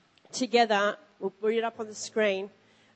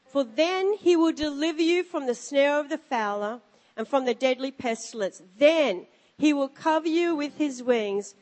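scripture reading. Acted. Reads scripture aloud.

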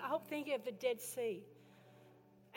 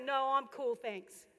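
complacent churchgoer; 4 dB louder than usual. Retold or imitated. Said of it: "people are gonna actually say".

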